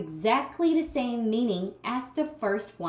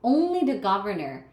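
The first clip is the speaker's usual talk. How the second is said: single out "Only" with weight; stress on only. Shown as a demonstration. Teacher insisting it is only the governor, stressed. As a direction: hit "Only" firmly. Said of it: "pay attention to the word the governor".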